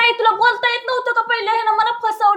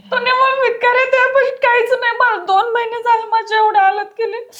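crying; 4 semitones higher than usual. Acted. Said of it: "बाई गं, रडू नको तू".

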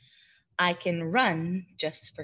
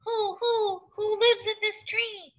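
owl hoot; 13 semitones higher than usual. Acted. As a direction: hoot the words like an owl to the kids. Owl hoots in picture book.

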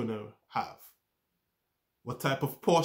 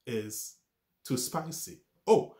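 startled warning; slower than usual. Retold or imitated. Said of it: "taste warns us".

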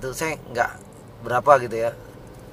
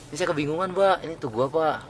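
soft, slightly raised confused request; explaining politely first; 2 semitones higher, 4 dB quieter than usual. Shown as a demonstration. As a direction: politely play the lost visitor asking for help. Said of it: "Ini saya terangin dulu".

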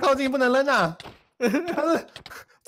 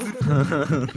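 low chuckle; 9 semitones lower than usual. Real, not acted. Laughing at teammate's joke.

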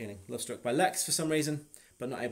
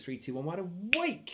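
hypnotist countdown; 5 semitones higher, 4 dB louder than usual. Acted.

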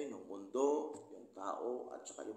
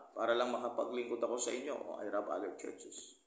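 mild sarcasm. Retold or imitated. Preacher voicing Paul's jab at the Corinthians, lightly sarcastic. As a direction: say "I rob other churches" as a wry half-joke. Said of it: "That's sarcasm".

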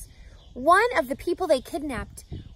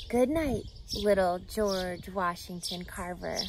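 whispered lullaby goodnight; 5 semitones lower, 6 dB quieter than usual. Acted. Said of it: "Susan whispered".

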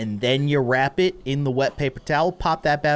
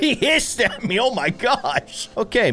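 high, shocked exclamation; taken aback, ending drawn out; startled; 9 semitones higher than usual. Real, not acted. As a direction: recoil in amused shock. Startled by hissing cat.

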